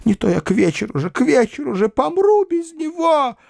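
wailing cry. A narrator's reading. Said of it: "закричала она".

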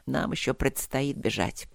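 low, even and unhurried; calm. Acted. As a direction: state it calmly, no fuss. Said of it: "заметил он спокойно".

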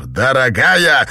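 slow, loud indignant echo; flaring up. Acted. Husband hearing his wife called darling, flaring up slowly. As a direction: flare up at the word. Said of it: "вспыхнул Честер".

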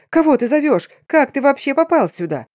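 high, loud panicked yelling; terrified yell. A narrator's reading. Cornered man screaming at the werewolf, high terror. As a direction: shriek the questions in horror.

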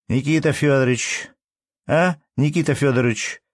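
high peevish call across the yard; shrill calling. Acted. Wife calling the manager to tea, peevish shout. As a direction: call him in like a nagging wife. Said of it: "крикнула женщина пескливо".

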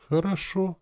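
sweetly high agreement; affectionate. A narrator's reading. Leader accepting a newcomer to the trip, affectionate. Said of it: "сказал я ласково".

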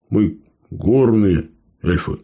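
slow, lofty declaration; self-important claim. Acted. Dark elf dodges climbing, lofty and slow. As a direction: declare it grandly to dodge the job. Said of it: "важно заявил афро-эльф".

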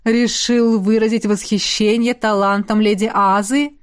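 сияющий дядюшка. Acted. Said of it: "просиял безопасник".

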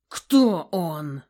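loud, stern demand; menacing boom. Acted. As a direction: thunder the question at her. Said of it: "грозно громыхнул".

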